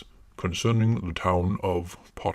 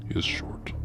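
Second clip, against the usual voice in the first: whispering; 4 semitones lower, 5 dB quieter than usual. Acted. Closing whisper of intro.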